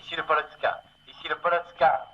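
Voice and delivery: crackly radio voice; urgent call over a failing radio line; field telephone. Acted. Radio call, bad reception.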